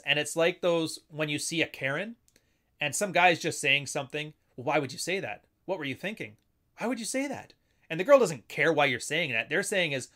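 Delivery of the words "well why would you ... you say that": mildly accusing question, pitched up at the end; passive-aggressive. Acted. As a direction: challenge them with a pointed question. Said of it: "take out the passive aggressiveness".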